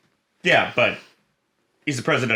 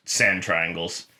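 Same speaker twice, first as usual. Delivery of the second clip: mock Kunk phrase; 4 semitones lower, much slower than usual. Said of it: "she referred to them as".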